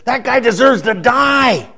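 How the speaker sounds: slow, weighty pronouncement, a hint of David; lightly voiced judging king; solemn king's verdict. A preacher voicing King David passing sentence on the thief, slow and grave. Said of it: "he says".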